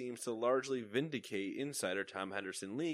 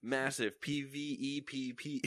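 movie trailer voice; 3 semitones higher, slower than usual. Shown as a demonstration. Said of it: "we can trailer voice again for that".

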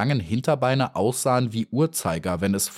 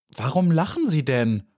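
a bee demanding an answer, much higher; unfriendly; 7 semitones higher than usual. Acted. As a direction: snap the question at him, annoyed. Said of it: "fragte sie nicht gerade freundlich".

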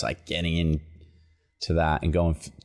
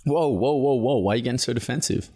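mocking accuser; 5 semitones higher than usual. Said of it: "people used to say".

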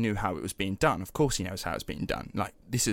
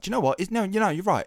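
mock exasperation; 8 semitones higher, 3 dB louder, much faster than usual. Imagined outburst at heckling kid.

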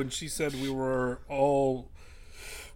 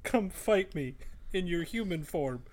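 mock-tough taunt, building louder; drawn-out insults rising to a loud challenge; taunting challenger; 4 semitones higher, 6 dB louder than usual. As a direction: goad the villain into a fistfight. Player's character taunts the villain.

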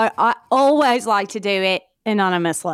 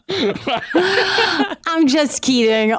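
real laughter through drawn-out words; higher, giggling as the joke is revealed; laughing; 9 semitones higher, much slower than usual. Real, not acted. Guest owning up to a prank, laughing.

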